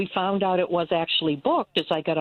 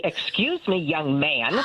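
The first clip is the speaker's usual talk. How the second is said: a hint of a strict teacher; lightly voiced stern teacher; slower than usual. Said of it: "I just use my teacher voice and say".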